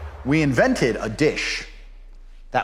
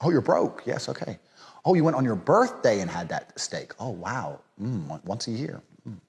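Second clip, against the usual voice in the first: unimpressed murmured replies, trailing softer; condescending feigned interest; 2 semitones lower, 4 dB quieter than usual. Acted. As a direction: politely humour them while looking down on them. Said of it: "I'm just sitting there going".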